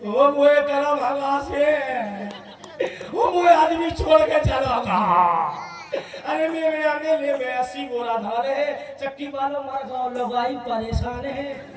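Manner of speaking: slow, hammed-up lament; mock wailing mother. Mother mock-crying over her lost husband. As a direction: wail like a weeping old mother. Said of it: "अब अम्मा रोई".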